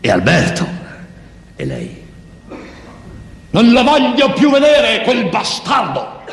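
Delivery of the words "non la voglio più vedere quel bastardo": thin voice cursing. Acted. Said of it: "Una voce che non ci sta mica con quel corpo".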